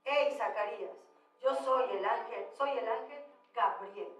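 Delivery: understated, low angelic announcement; lightly voiced Gabriel. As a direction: drop the voice slightly to play the messenger. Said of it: "Y entonces el ángel le dice".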